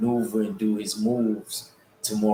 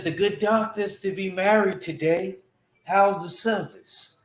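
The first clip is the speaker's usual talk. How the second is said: Moriarty's voice; 7 semitones higher than usual. Retold or imitated. Showing chat how Moriarty said it, British accent. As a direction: imitate Moriarty's British accent again, higher. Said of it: "that's how he said it".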